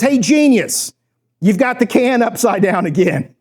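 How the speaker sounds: mock scolding from a film director; sarcastic director. Director correcting an actor holding the can wrong, mock irked. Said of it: "you hear the director go".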